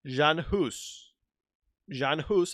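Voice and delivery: Jan Hus said the German way, Yan Hoos; German pronunciation. Shown as a demonstration. Showing off German to the viewers, Jan Hus the German way. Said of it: "I know the German pronunciation".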